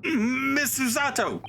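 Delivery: high, drawn-out exclamation; dismayed high-pitched cry; startled call. Acted. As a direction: call out her name in shock. Figure calls out to a companion.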